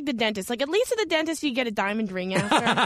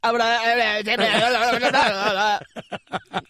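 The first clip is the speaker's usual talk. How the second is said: imitated gibberish outburst; comic run of wordless jabber; mock babbling; 3 semitones lower than usual. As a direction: babble nonsense syllables in imitation of a co-host. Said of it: "Dave would have been like".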